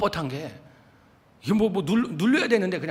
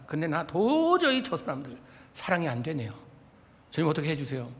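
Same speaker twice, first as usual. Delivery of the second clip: humble prayer. Retold or imitated. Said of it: "주님께 이렇게 기도해요".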